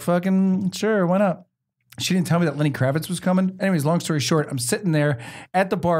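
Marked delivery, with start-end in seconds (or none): 0.0-1.5 slowly stretched "Fucking sure", casually keen; drawn-out eager yes. Retold or imitated. Young model agreeing to meet Jeremy Piven, slow eager drawl. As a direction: savour it, like the answer is obvious. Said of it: "And I was like".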